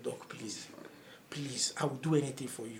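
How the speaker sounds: low, very soft begging; retold weak plea from a patient in pain; hushed pleading. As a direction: beg the doctor under your voice. Pleading with doctor while in pain.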